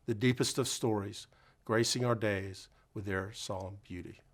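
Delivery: measured, somewhat slowed poem recital; solemn poem reading. Acted. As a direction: read it gently, letting lines settle. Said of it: "reciting an original poem".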